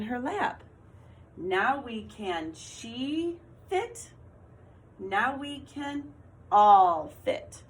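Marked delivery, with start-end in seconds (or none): 1.4-4.1 slow with rising end on "fit"; slow trial read. Shown as a demonstration. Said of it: "What one made sense?". 5.0-7.6 "all" much higher and louder; excited emphasis. Shown as a demonstration. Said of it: "What one made sense?".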